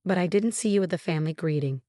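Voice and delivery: surprised. Acted.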